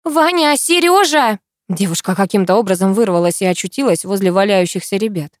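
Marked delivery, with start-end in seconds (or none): 0.0-1.4 high urgent shout of names; panicked calling. A narrator's reading. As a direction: call out to the fighters. Calling out during fight.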